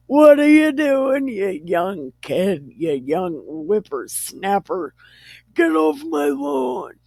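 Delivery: hammed-up old-geezer scolding, leaping high; mock-cranky whippersnapper rant; crotchety old man. Father-in-law as crotchety old man.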